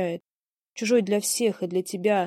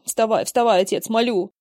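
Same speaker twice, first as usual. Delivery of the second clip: urgent pleading; 2 semitones higher, 6 dB louder than usual. Acted. Son begs father to rise.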